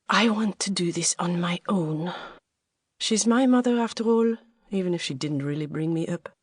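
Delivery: put-on lightly French-accented young woman. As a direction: speak English with a faint French accent. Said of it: "your French accent".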